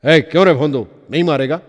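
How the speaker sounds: an angry ticket checker bullying a passenger into slapping; snapping. Acted. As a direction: snap at him like an irritated ticket checker. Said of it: "तो खेकसला".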